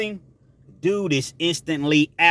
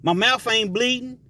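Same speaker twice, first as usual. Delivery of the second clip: higher, goading taunt; a mock prison dare, pitched up; taunting challenge; 7 semitones higher than usual. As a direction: dare him to swing. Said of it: "that was a saying back then".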